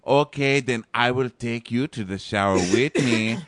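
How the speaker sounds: lightly faked Russian accent; half-hearted mock Russian accent; bad Russian accent. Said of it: "I can't do a Russian accent".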